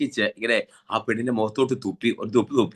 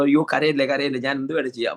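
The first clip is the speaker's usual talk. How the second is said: anxious pleading; 4 semitones higher than usual. Retold or imitated. Man pleads with crying girl.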